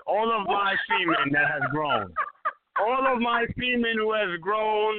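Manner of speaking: slow, grand proclamation; town crier. Acted. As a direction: decree it slowly to the crowd.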